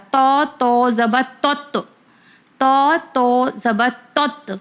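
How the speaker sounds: slow spelling, heavy rounded t, تت bouncing at the end; تت with an echoed heavy t; qalqalah on تت. Shown as a demonstration. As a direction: make the final t of تت sound twice. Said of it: "تو اس کا بھی sound دو بار آئے گا".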